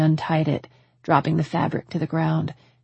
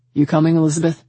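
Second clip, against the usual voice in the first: raised voice calling out; shouting; 6 dB louder, faster than usual. A narrator's reading. Man calling the woman from elsewhere, shouting. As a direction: call loudly to someone in another room. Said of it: "I heard him shout".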